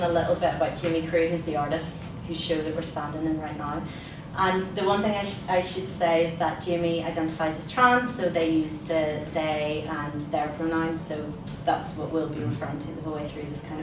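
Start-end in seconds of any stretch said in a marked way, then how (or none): none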